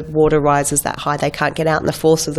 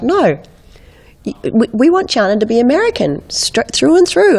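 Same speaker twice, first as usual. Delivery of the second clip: mock insistent producer; 7 semitones higher than usual. American producer on the phone, mock insistent and higher. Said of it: "He's like".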